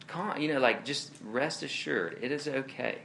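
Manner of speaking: soft, unhurried reassurance, settling at the end; comforting. Acted. Jesus soothing disciples who are freaking out, comforting. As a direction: gently assure them all is well. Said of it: "are words of comfort".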